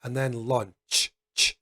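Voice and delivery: launch, then ch isolated; voiceless ch. Shown as a demonstration. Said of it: "We do not use our vocal cords to say those letters".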